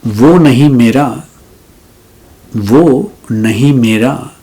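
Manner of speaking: measured ghazal recital with lingering pauses; poetry recitation. Acted. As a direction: recite the couplet, savouring each phrase.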